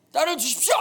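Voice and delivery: high, loud drama-style request; mock dramatic plea. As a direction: boldly ask for her hand, hammed up. Acts a drama marriage request. (과장된 드라마풍의 큰 소리 간청)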